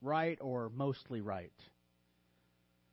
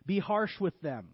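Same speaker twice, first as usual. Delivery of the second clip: firm mock command; deadpan sarcastic instruction; tongue-in-cheek; 2 semitones higher, 4 dB louder than usual. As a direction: give bad advice with a straight delivery. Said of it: "Tongue in cheek here".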